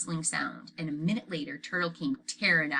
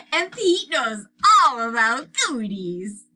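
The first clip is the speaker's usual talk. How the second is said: put-on 1 little boy voice; 7 semitones higher, 10 dB louder, slower than usual. A narrator's reading. Fudge voiced by narrator.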